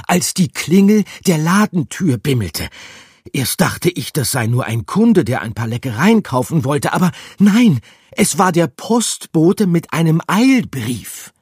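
high, loud breathless rat voice; excited rat. A narrator's reading. Rat telling the mice about the cruise, high and excited. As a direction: blurt the big news.

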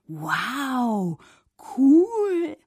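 high squeaky fish voice, loud on cool; impressed fish. A narrator's reading. Little fish admiring the fork, high and loud. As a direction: pipe up, impressed. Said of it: "sagte Fabius".

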